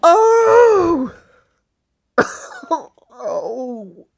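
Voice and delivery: high, helpless laughing moans; can't stop laughing after the clip; crying laughing. Real, not acted. Streamer wheezing with laughter after the clip. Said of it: "I'm crying bad".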